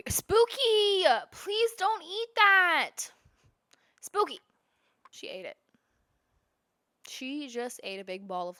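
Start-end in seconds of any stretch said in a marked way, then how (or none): 0.1-4.4 calling the cat. Real, not acted. Cat eating lint off floor.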